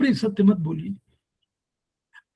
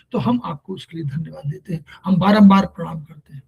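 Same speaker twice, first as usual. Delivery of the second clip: humble prayer; 2 semitones lower than usual. Pretend. Voicing a thankful prayer to God.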